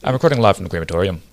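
loud, hammed-up British accent; mock British accent; bad British accent. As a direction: ham up a British lord greeting. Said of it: "terrible British accent".

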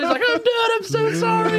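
high, lightly voiced pleading surrender; a hint of a beaten inmate giving up. Holdout inmate begging the officers to stop, mild mock pleading. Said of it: "he's like".

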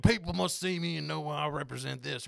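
mock country accent. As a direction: imitate a country voter proclaiming their politics. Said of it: "they're both country accents".

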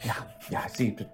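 whispering. Acted. Keeps whispering after being corrected.

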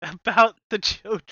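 high, loud mock outrage; hammed-up righteous appeal; Nancy Grace. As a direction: plead it like a scandalized TV host. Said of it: "my Nancy Grace impression".

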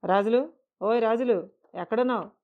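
loud call across the counter; calling out loudly. Acted. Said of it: "గట్టిగా పిలుస్తున్నా". (గట్టిగా పిలుపు)

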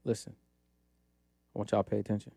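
hushed, secretive whisper. Pretend. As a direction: lean in and whisper it. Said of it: "Why, why are you whispering?".

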